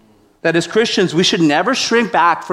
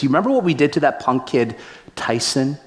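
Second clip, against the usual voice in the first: menacing guard; 4 dB quieter, faster than usual. Retold or imitated. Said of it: "with kind of this menacing look".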